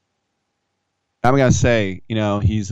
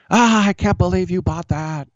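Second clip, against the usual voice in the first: mock anguished fan; 10 semitones higher than usual. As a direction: wail like a betrayed fan. Heckler's dismay, mocked.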